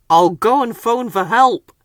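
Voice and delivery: driver. Acted. Driver urgently heading to phone for help. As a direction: hurry off for help. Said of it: "said the driver".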